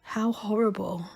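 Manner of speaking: barely voiced, horrified hush; soft whisper. A narrator's reading. Grimmer to the tribe, appalled by the gnomes, whispering. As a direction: breathe it out in a hushed whisper. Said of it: "very softly".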